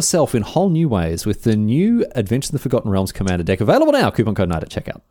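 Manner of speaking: polished ad-copy delivery; mock-earnest sponsor read; shilling. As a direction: sell it like a commercial announcer. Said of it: "how about some shilling".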